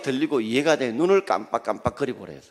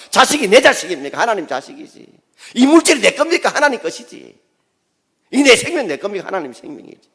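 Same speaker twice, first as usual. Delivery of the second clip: Gyeongsang dialect; 9 semitones higher, 7 dB louder than usual. Retold or imitated. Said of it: "힘 빠지면 뭡니까".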